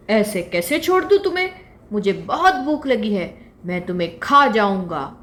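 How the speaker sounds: the lion refusing to let the fawn go; gruff lion. Acted. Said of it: "शेर बोला". (ज़ोरदार शेर की धमकी)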